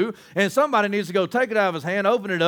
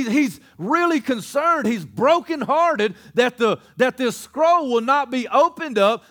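impassioned preaching; 5 semitones higher than usual. Real, not acted. Preacher dwells on John's heartbreak.

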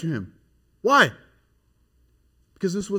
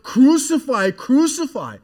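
higher, louder chant of crucify; crying out; 10 semitones higher, 8 dB louder, slower than usual. Retold or imitated. Chief priests crying out to Pilate, loud high shout. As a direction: shout it like a mob demanding death. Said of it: "they cried out".

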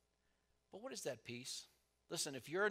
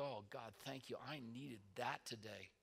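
quiet grateful prayer; 2 semitones lower, 7 dB quieter than usual. Shown as a demonstration. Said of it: "and you go".

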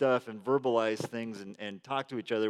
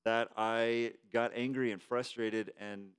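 sincere apology; 3 semitones lower, 6 dB quieter than usual. Shown as a demonstration. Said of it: "We model this for them".

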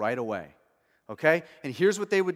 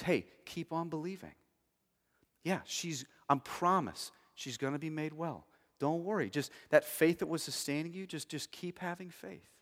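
reassuring comfort; 6 dB quieter than usual. Retold or imitated. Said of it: "It's comfort to Jairus".

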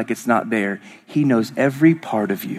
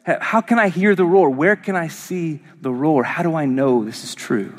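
higher, insistent questioning as a sceptic; doubting listener; 5 semitones higher than usual. Acted. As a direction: fire off a doubter's questions, easing at the end. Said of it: "and you go".

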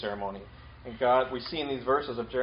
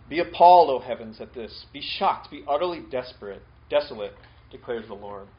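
loud scripture proclamation; 7 dB louder than usual. Acted. Reading God's lament from scripture.

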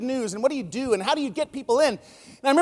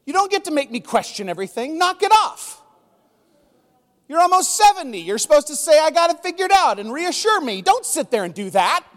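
indignant protest; 5 semitones higher than usual. Retold or imitated. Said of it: "I was like".

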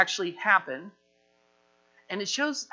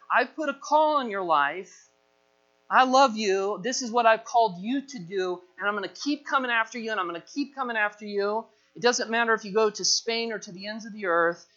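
raised, emphatic declaration; insistent pursuit; 3 semitones higher than usual. Acted. God cornering runaway Jonah, insistent pursuit. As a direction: press it home, relentless and sure.

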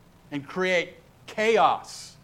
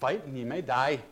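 put-on measured reply with a light Scottish accent; poor Scottish brogue. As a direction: answer the doubter in a hint of brogue, with pauses. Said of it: "Forgive my poor brogue".

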